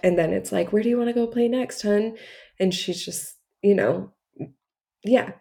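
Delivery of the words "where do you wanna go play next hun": put-on higher, fast, bright redirect to a child; light and upbeat to a little kid; cheerful mom voice. Mom redirecting her young daughter.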